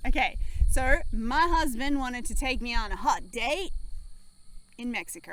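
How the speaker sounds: put-on southern accent. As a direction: tell it in a touch of Southern accent. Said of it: "Why are you speaking in a southern accent?".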